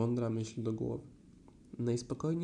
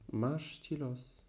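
moaning; much slower than usual. Acted. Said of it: "jęczał Puchatek z głębi garnka".

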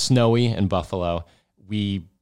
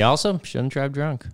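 raised voice; 6 semitones higher than usual. Real, not acted. Teasing interjection.

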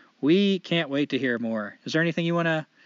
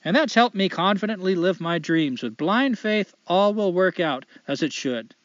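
put-on Canadian accent. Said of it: "I'm gonna try to do a light Canadian accent".

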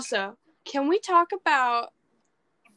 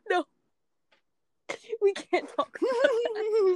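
laughing whine; 9 semitones higher than usual. Real, not acted. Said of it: "laughing refusal".

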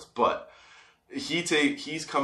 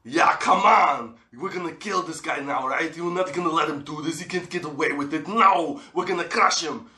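a hint of a pumped-up voice egging him on, higher; lightly voiced inner ego, building to a laugh; inner hype voice; 5 semitones higher than usual. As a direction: voice his ego urging him to crush the guy. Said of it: "the voice in my head goes".

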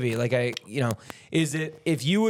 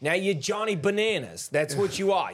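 mock old New York gangster, raised pitch; hamming up the old mobster's explanation; quoting an old gangster; 4 semitones higher than usual. Retelling a Gotti documentary gangster, light mobster voice. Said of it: "he goes, uh, he goes".

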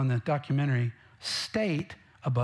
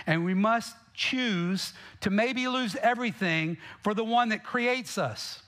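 higher and slower on "we must choose to maybe lose everything"; stretched-out call to sacrifice; rising plea; 5 semitones higher than usual. Real, not acted. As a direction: build to a high, earnest peak. Sermon climax on sacrifice.

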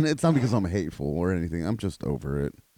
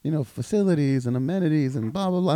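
mock old lady; 7 semitones higher than usual. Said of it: "this old bitch, and she's like".

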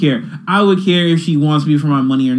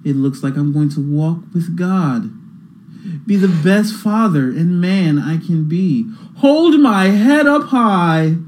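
billionaire voice. Pretend. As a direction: read the caption as a smug billionaire. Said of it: "I'm throwing a billionaire voice on".

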